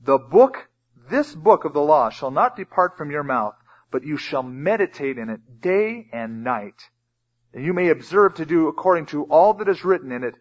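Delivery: emphatic, measured Bible reading; scripture reading. Acted. Preacher reads God's command to the congregation, emphatic scripture reading. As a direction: read scripture out, landing on key words.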